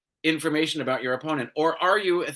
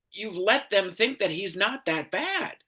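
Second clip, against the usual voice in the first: ordinary talk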